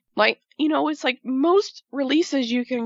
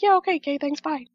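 dismissive brush-off; 3 semitones higher, faster than usual. Retold or imitated. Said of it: "And they're just like".

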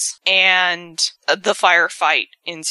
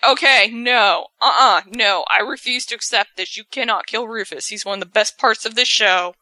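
indignant protest; 4 semitones higher than usual. Real, not acted. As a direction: refuse to accept the death. Fan refusing character death.

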